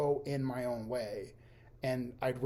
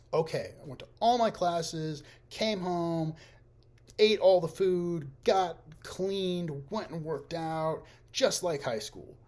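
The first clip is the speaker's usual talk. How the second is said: bright, high, pleased run-through of the day; cheery self-congratulation; 6 semitones higher, 7 dB louder, slower than usual. Pretend. Imagining waking up to a perfect day, chirpy and high. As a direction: sound like a kid proud of a perfect day.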